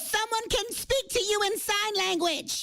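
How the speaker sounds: very slow, drawn-out words; slow for hard of hearing. Acted. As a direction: spell it out slowly for someone hard of hearing.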